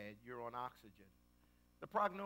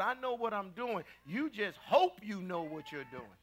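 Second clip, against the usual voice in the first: God; 4 semitones higher, 3 dB louder than usual. Retold or imitated. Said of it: "God says".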